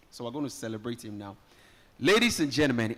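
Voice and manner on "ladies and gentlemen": louder, ringing MC announcement; formal announcer call. Shown as a demonstration. MC formally opening for the crowd, announcer voice. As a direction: open the official introduction like a herald. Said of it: "so this is the official one now".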